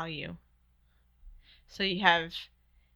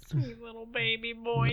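put-on cooing baby talk; 4 semitones higher, slower than usual. Cooing over a sweet boy.

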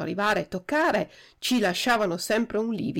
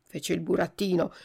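ordinary delivery

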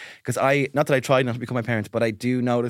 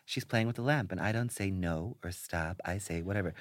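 mock gentle parenting voice; 8 semitones lower, 10 dB quieter than usual. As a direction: parody soothing therapy speak. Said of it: "the woman saying".

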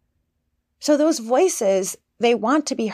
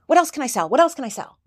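fearful seller; 4 semitones higher, faster than usual. Retold or imitated. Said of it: "if I get fear around having a business".

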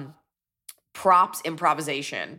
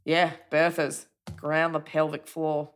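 put-on Australian accent. Slips into her Australian character's accent.

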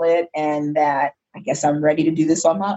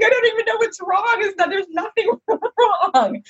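retold crying; 14 semitones higher than usual. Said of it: "I started crying".

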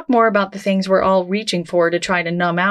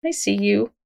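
gentle greeting. Shown as a demonstration. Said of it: "you can say".

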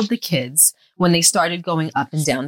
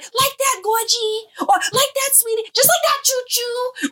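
high, slow sing-song mimicking mom; mock her baby talk, laughing; mocking husband's sing-song. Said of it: "he'll be like".

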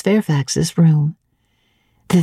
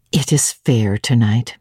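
motherly housekeeper; 6 semitones lower than usual. A narrator's reading. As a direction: speak as the fussing elderly housekeeper. Fairfax voiced in audiobook.

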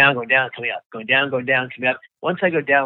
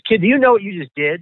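higher, louder voice of a stunned Coast Guard man; amazed rescuer; 8 semitones higher, 5 dB louder than usual. Retold or imitated. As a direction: pitch it up like a rescuer who can't believe it. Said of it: "The second guy says".

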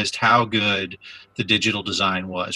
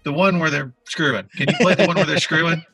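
laughing; 10 semitones higher, 3 dB louder than usual. Real, not acted. Joking request to producer.

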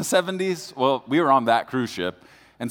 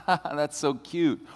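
amused; 3 semitones higher, 3 dB quieter, much slower than usual. Retold or imitated. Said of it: "I'm like".

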